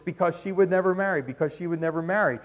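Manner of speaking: because she would never marry, repeated quickly; repeated for emphasis. Shown as a demonstration. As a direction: hammer the repetition. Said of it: "over and over".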